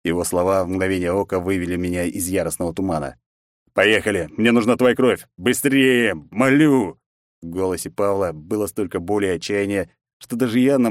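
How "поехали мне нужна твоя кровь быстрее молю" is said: loud desperate begging; desperate plea. Acted. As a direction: beg him frantically. Desperate pleading emperor.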